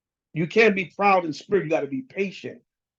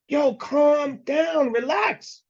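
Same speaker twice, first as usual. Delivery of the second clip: higher, very slow stretched-out calm down; slow drawn-out calm down; 7 semitones higher, much slower than usual. Pretend. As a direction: draw each word out to settle a hothead. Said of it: "You just angry, just flying off at the handle".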